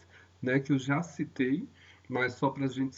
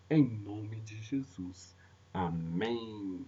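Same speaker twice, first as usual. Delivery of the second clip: hushed, lowered praying voice toward the end; prayer; 2 semitones lower than usual. Real, not acted. Leads a prayer.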